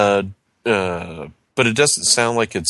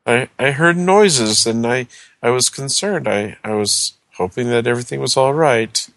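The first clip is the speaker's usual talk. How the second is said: lightly voiced old neighbor; frail, worried old gentleman; small old man voice. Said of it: "he goes".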